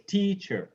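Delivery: "teacher" as TEA-cher, falling away; stress on first syllable. Shown as a demonstration. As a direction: put the weight on TEA in "teacher". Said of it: "the first one".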